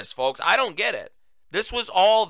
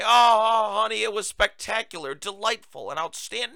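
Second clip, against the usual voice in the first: mock gushing; 4 semitones higher than usual. Mocking how no one answers how was your day, hammed-up gushing. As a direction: mockingly overdo a sugary 'honey' reply. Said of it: "No one talks like this".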